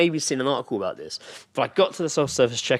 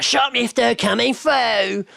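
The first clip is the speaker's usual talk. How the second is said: high, slow mock announcement; imitating a loud woman in a shop; shouted shoplifter quote; 12 semitones higher, 4 dB louder, much slower than usual. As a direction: call it out like a brazen shoplifter. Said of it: "she's like".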